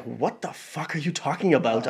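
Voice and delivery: slow, stretched-out disbelief, kept soft; acted slow incredulity; mock bafflement. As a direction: draw it out softly, as if dumbfounded. Acts own baffled reaction in argument.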